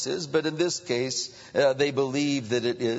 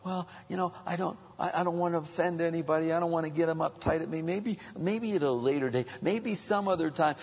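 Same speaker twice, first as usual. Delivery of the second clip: softly hedging, noncommittal mumbled excuses; apathetic excuse-making; 6 dB quieter, faster than usual. Acted. Preacher mimicking apathetic believers making excuses, softly noncommittal. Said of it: "how can we be apathetic and sit around".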